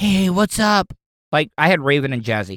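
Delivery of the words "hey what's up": put-on high cooing baby talk. Showing how they used to talk to their two dogs: baby-talking to dogs. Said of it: "Baby talking to your dog".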